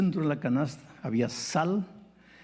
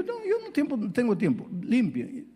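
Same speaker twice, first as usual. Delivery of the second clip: impatient; 11 semitones higher than usual. Retold or imitated. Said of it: "Le digo".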